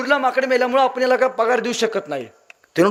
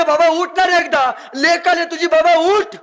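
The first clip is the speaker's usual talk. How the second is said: wailing daughter; 9 semitones higher, slower than usual. Acted. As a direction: cry out to him to wake up. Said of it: "हंबरडा फोडते".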